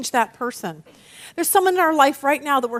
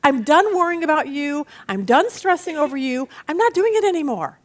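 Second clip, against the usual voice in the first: louder, fed-up release of it all; letting go; 2 semitones higher, 3 dB louder than usual. Retold or imitated. Believer handing a stubborn person over to God, fed up. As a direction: throw up your hands and hand it over. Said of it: "When you get to the point of saying".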